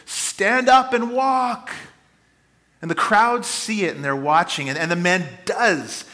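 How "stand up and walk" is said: slow, high, loud command to the crippled man; Paul booming at the man to rise. Retold or imitated. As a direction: boom it out like an apostle working a miracle. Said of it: "comes to this man in a booming voice".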